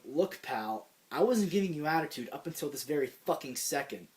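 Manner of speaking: acted-out confrontation, building from firm to heated; retold pissed-off threat. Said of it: "this is when I start to get pissed".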